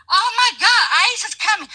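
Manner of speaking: high-pitched imitation of gleeful cheering; put-on gleeful cheer; mock cheering. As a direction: mimic them cheering, pitched well up. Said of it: "always cheering".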